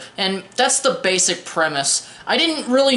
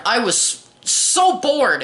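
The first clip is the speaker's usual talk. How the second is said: mock bored; 3 semitones higher, much slower than usual. Reviewer complaining about dull film.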